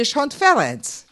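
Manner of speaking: Kishon Ferenc, Hungarian style, surname first; Hungarian pronunciation. Shown as a demonstration. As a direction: stress on Kishon, Ferenc with rolled vowels. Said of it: "That's the proper way".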